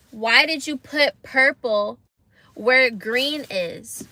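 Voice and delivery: slow, emphatic exasperated question; retold exasperation. Client asks artist about the misplaced colour, exasperated. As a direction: spell out the complaint slowly, word by word. Acted confrontation with tattoo artist.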